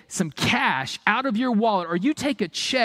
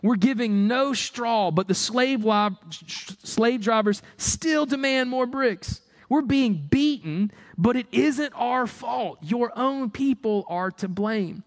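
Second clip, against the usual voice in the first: slow, higher plea to Pharaoh; begging foremen; 4 semitones higher than usual. Acted. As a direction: beg slowly, pitch lifted, for mercy. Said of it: "they begged".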